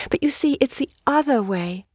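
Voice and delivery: high, protesting cry. A narrator's reading. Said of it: "she cried".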